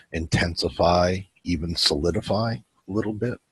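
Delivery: unhurried meditation guide with long pauses; calm guiding voice, leaving room to breathe; guided meditation. Acted. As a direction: lead them gently through a breathing visualization.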